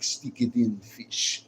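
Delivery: lightly imitated Russian woman; mock Russian accent. Streamer imitating Russian women for chat, mock Russian accent. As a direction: put on a thick-tongued Russian accent. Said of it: "Russian women, they be like".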